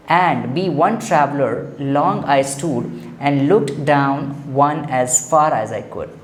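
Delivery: slow, measured reading of the verse; poem recitation. Acted. Teacher reading the poem to students, slow and measured. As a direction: recite it line by line, slowly.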